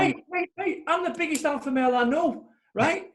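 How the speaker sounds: high, hammed-up macho boast; mock alpha male. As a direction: puff up like a show-off alpha. Mocking a swaggering alpha male.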